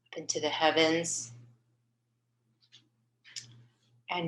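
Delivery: unhurried meditation voice with long pauses between phrases; guided meditation. Acted. Host leading her healing group in a meditation on light, guided meditation. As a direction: guide listeners gently, phrase by phrase, leaving space.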